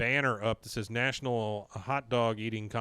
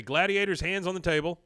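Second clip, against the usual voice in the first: raised, measured announcer calls; lightly voiced contest official, higher pitched; referee; 5 semitones higher than usual. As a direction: start the contest like a referee, with pauses. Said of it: "we hear the referee say".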